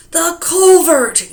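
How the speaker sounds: high, slow, loud discovery shout; triumphant yell. Acted. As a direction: call it out like you've found him. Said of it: "yelled Mister Wagon Wheel".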